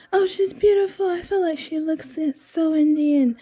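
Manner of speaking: high, lilting imitation of an Indian wife's accent. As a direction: mimic the wife gushing in an Indian accent. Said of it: "in their accent".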